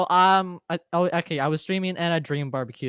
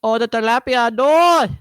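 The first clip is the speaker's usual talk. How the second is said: high, loud wailing cry; anguished cry; 12 semitones higher, 7 dB louder than usual. Pretend. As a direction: wail it out in mock despair. Mock anguish over tilapia.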